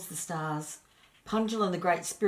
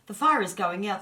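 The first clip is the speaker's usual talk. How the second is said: alarmed cry; 4 semitones higher, 7 dB louder than usual. Acted. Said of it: "cried Punjal".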